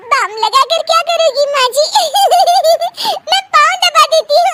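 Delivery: high-pitched words breaking into a long giggle; laughing fit in a high young-woman character voice; uncontrollable giggling. Acted. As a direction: giggle helplessly through the offer of help. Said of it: "ऊपर से तुम हंस रही हो".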